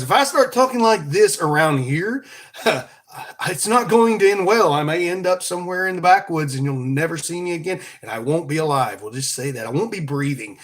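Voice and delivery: put-on, carefully spoken Northern accent. Shown as a demonstration. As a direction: imitate a plain-talking Northerner. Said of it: "like someone from up north".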